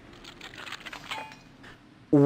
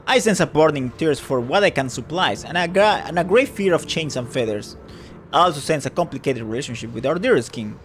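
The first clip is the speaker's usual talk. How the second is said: theatrical fortune teller. Acted. Fortune teller tempting a customer, mysterious and grand. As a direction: play the old fortune teller weaving her pitch.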